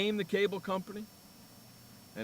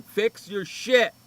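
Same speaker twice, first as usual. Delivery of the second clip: retold yell; 3 semitones higher, 4 dB louder, much slower than usual. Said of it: "yelled and screamed".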